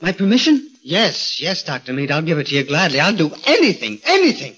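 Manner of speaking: eager agreement. Acted. Gorgo eagerly agrees to sign, high and keen. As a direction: promise him anything.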